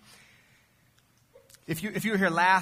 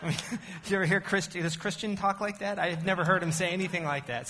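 laughing; 5 semitones higher than usual. Real, not acted. Laughing at his bad accent.

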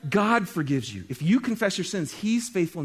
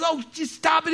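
father's exclamation; 10 semitones higher than usual. Acted. Father in parable cuts son off.

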